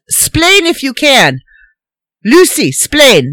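put-on slow Cuban-accented splain; mock Cuban accent; mock Ricky accent. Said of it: "what he really said was".

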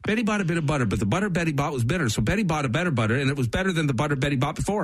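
sprint through it, laughing; fast tongue twister run with a laugh. Shown as a demonstration. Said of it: "It's something with the B's".

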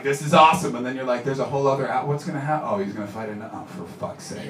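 mock viewer losing patience, fading away; waning enthusiasm.

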